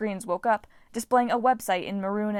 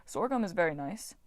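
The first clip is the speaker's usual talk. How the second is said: lightly voiced farm god. God voice, disdainful musing.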